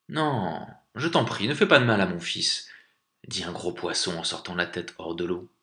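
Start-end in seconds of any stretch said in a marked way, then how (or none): 0.1-2.7 higher-pitched, alarmed plea; anxious parent's entreaty; pleading. Acted. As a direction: beg urgently for your child's life. Big fish begs for its child.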